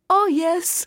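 high, quick "oh yes"; cartoon turtle's proud admission; gleeful turtle. A narrator's reading. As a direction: pipe it up high. Turtle finally admits flying.

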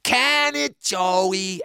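high-pitched bossy retort; Stinky Annie, sharply impatient; curt dismissal. A narrator's reading. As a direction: shut your little brother up. Annie cuts brother off.

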